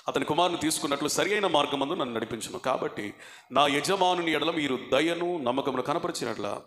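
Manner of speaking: low, even reading-aloud voice; steady recital of holy text; scripture reading. A narrator's reading. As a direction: read the Bible passage out formally, pitched below normal talk. Reads a scripture passage aloud.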